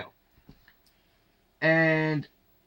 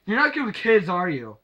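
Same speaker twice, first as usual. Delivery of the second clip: harsh rhetorical jab; 4 semitones higher than usual. Retold or imitated. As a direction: throw it at him like a cutting accusation. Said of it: "She didn't come out that harsh".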